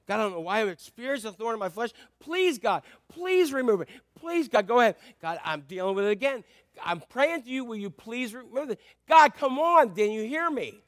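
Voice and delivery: Paul pleading with God to remove the thorn; pleading prayer. Retold or imitated. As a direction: beg God over and over. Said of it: "he pleaded with God".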